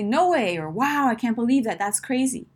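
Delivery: mildly amazed disbelief; surprise. Shown as a demonstration. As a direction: react as if you can hardly believe it.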